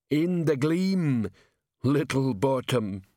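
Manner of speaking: slow, heavy-footed troll delivery; half-speed troll, words drawn out. A narrator's reading. Troll on duty answering a visitor, slow troll voice.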